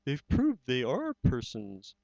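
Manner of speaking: proud and gentle, savouring the moment; lightly voiced Horton, moved; tender elephant. Horton's closing speech.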